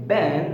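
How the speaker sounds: "been" said the American way, with a short vowel like "bin"; short relaxed vowel in "been"; American "been", rhyming with "bin"; American pronunciation. Shown as a demonstration. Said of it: "في الأمريكان accent".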